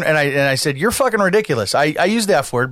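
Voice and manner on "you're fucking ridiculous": said calmly. Retold or imitated. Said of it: "but I said it very calmly".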